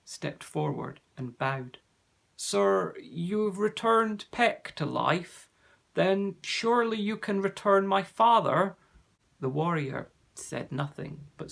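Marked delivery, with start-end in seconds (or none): 2.3-8.8 higher, hopeful plea; pleading wood elf son. A narrator's reading. Staplehead begs the warrior for his father, higher and hopeful. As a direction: beg gently for his father back.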